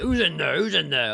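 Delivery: high, loud, imitated shout through a door; urgent mock yell; demanding call. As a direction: act out someone demanding an answer. Acts ex-boyfriend demanding outside bathroom door.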